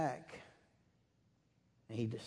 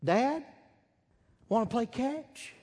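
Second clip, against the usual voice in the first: high, loud, choked-up plea to a father; a son's high, loud, emotional plea; with great emotion; 11 semitones higher, 5 dB louder than usual. Retold or imitated. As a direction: call out to the father, voice lifting high with longing. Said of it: "utters those words with great emotion".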